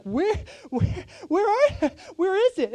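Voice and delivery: frantic high yelling search; panicked shouting. Retold or imitated. Preacher reenacting his couch search, panicked high yell. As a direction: shout it out like you've lost everything.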